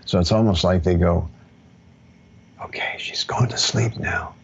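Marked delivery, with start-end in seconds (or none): 2.7-4.3 hushed, breathy whisper, voiceless; whispering ancestor. Retold or imitated. Imagined ancestor watching her fall asleep, whispering. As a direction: whisper it like a spirit sneaking close.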